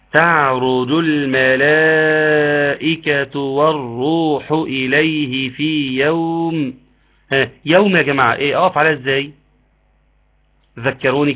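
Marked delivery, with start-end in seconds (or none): 0.1-6.7 slow chanted Quran recitation; tajweed recitation. Shown as a demonstration. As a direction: recite the verse slowly, drawing out the vowels. Recites the verse. (تلاوة مجودة بطيئة)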